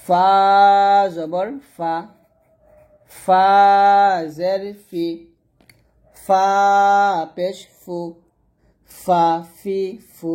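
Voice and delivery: long, light ফা with air escaping; thin, airy fa. Shown as a demonstration. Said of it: "এরকম পাতলা করে". (ফা পাতলা করে বাতাস ছেড়ে)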